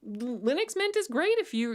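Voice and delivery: usual speaking voice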